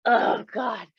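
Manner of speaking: tearful "Oh God", voice breaking; real tears reliving the moment; crying. Real, not acted. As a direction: say it as tears come. Retelling her tearful reaction.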